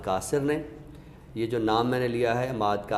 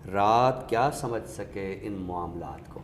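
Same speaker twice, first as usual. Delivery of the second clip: slow poetic recitation. Acted. Critic reciting the full couplet for its rhythm, slow and lifted. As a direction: lift the first line then settle into the second, unhurried.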